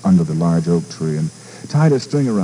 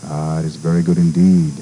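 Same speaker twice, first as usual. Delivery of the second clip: a wise wolf, calm and unhurried; great silver wolf speaking kindly; gentle wolf; 4 semitones lower than usual. Acted.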